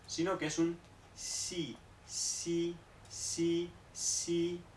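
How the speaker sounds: "si" suave entre s y sh; "si" con menos aire que la sh; x china suave. Shown as a demonstration. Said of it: "no es tan fuerte como la S H". ("si" de la x china)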